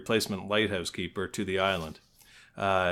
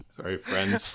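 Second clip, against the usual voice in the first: whispered; 7 semitones higher, slower than usual. Real, not acted. Apologizing to listeners, laughing.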